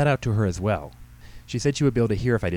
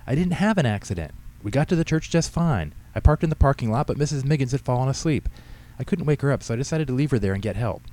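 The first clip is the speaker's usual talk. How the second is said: put-on high-pitched, agitated teenage protest; exasperated daughter, almost yelling; nearly shouting; 8 semitones higher than usual. A narrator's reading. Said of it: "Katie practically shouted".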